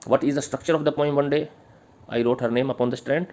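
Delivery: slow, measured dictation pace, each word spaced; slow dictation to the class. Acted. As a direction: read it out slowly so students can write. Dictating question.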